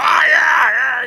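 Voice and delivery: high, loud squeal of delight; excited wife. Pretend. Pretend wife squealing over the fast knife delivery. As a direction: gush like a thrilled wife. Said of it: "she's gonna".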